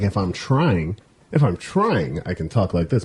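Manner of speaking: "talk like this" carefully said, low and measured; put-on proper "talk like this", slow and deliberate; trying voice. Shown as a demonstration. Showing friends the difference, careful "talk like this". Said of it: "your relaxed voice and I'm trying".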